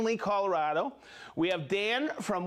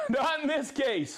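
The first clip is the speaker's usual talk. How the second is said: laughing; 6 semitones higher than usual. Real, not acted. Laughing echo of co-host.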